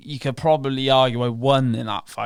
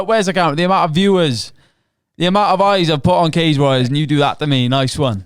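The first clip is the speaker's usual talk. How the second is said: indignant rant; 3 semitones higher, 6 dB louder than usual. Real, not acted. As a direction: vent the grievance at the promotion. Ranting at Cage Warriors.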